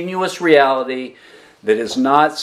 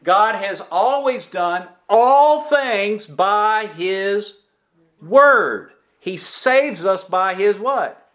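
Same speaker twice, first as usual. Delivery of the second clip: raised, high-pitched preaching cadence; 7 semitones higher than usual. Acted. Pastor preaching to his congregation, raised and rhythmic. Preacher drives home the Word.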